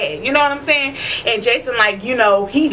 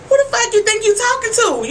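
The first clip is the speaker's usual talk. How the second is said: a lightly voiced pimp, higher and snapping; pimp mode; 10 semitones higher than usual. Warlow snapping at Sookie before he slaps her, mock pimp voice. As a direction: throw a mock pimp threat, pitched up. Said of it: "He went into pimp mode".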